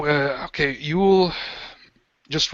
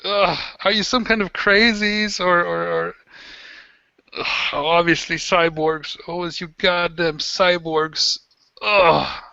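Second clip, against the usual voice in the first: disgusted captive; 4 semitones higher than usual. Acted.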